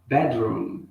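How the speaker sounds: Bedroom with a rolled-tongue R, slowly; teacher modelling Bedroom; clear model pronunciation. Shown as a demonstration. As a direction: say Bedroom carefully for students to repeat. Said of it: "One more time, pronunciando".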